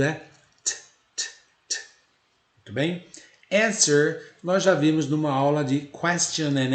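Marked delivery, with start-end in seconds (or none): 0.6-1.8 unvoiced "t, t" tapped out without a vowel; voiceless "t, t, t" sounds; muted t sounds. Shown as a demonstration. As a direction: tap a silent t with no vowel after it. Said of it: "É o T mudo".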